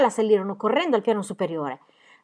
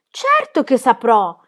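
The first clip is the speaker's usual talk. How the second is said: put-on slow, higher, louder cheeky girl; girl's exclaiming voice; 4 semitones higher, 7 dB louder, much slower than usual. A narrator's reading. Cheeky girl insisting to the adult, exclaiming. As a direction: protest it boldly as a cheeky girl. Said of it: "esclamò Pippi".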